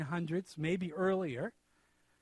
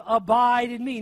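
"Abide" punched louder in "Abide in me"; stress on Abide; 7 dB louder than usual. Shown as a demonstration. Preacher pointing listeners to the verb, "Abide" stressed. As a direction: lean firmly on the word "Abide". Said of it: "the emphasis is on the verse, on the verb".

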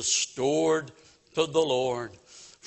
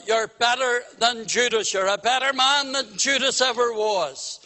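lightly imitated blunt evangelist, higher pitch; mildly acted pulpit challenge, pitched up; W P Nicholas; 4 semitones higher than usual. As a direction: echo a preacher's pointed accusation. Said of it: "could be very blunt".

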